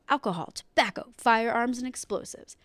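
dramatic item-by-item list of "Alcohol, Tobacco, Firearms, and Explosives"; emphatic list reading. Real, not acted. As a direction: punch out each item, "Alcohol, Tobacco, Firearms", then fall away on "Explosives". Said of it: "needed to say it that way".

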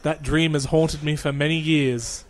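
slow, low mock-solemn monologue; hammed-up tragic backstory voice; dramatic brooding hero. Echoing the mock hero line.

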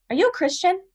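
earnest question. Retold or imitated. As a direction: ask it like it suddenly matters. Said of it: "she just looks at me for a second and she goes".

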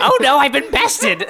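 high, drawn-out comic wail of defeat; mock defeat. Stuck adventurer admits defeat to the railing, mock anguish. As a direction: lament it loudly through laughter.

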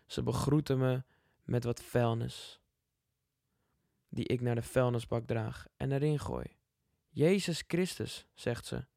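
calm, measured poem reading. Acted. Reads second poem. (rustige gedichtvoordracht)

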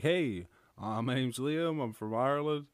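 imitating a nerdy, innocent self-introduction; lightly hammed-up innocent nerd. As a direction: play it as an earnest, guileless newcomer. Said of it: "innocent and nerdy".

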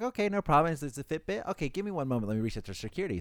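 overly polite desk clerk to guest; customer service voice. Retold or imitated. Hotel clerk to guest, bright and polite.

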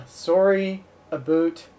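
slow Canadian "sorry, a boot"; drawn-out Canadian accent, "a boot" said like boot. Shown as a demonstration. Mocking Canadians, slow Canadian accent. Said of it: "I like my Canadian accent".

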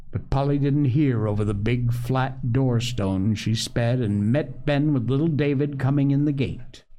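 measured storybook reading; story narration. A narrator's reading. Host reads a family tale to listeners, story narration. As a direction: read the story aloud, acting out each figure.

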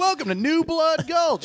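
high showy welcome; announcer voice. Pretend. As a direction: announce it like a grand host. Announcing town name grandly.

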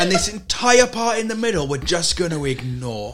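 loud, laughing mock pronouncement; mock dismissive Danes. Podcaster imitating Danes ignoring the middle island, mock dismissive. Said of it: "they're like".

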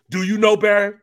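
high, loud sneering taunt; mocking taunt. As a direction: needle him with a taunting question. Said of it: "he goes".

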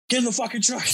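high-pitched urgent retold yell; panicked yell, imitated. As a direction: act out a panicked order to flee. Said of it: "panicking and".

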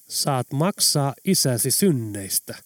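slow, calm and measured; a slow, unhurried verdict. Acted. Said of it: "lausui Oula nyt rauhallisella äänellä".

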